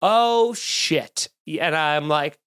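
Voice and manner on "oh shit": caught-off-guard oh shit; dismayed surprise. Retold or imitated. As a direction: gasp out the realisation. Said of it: "And she went".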